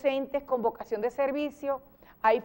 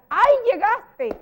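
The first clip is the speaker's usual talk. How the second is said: high, loud, drawn-out surprise; slow, soaring "ay" of surprise; surprised exclamation; 10 semitones higher, 8 dB louder, slower than usual. Shown as a demonstration. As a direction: greet an arrival with acted astonishment.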